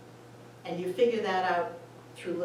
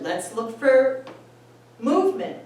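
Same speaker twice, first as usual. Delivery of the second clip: bright excited self-quote; cheerful self quote; 5 semitones higher, 9 dB louder than usual. Retold or imitated. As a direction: announce it gleefully, up high. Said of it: "And then I said".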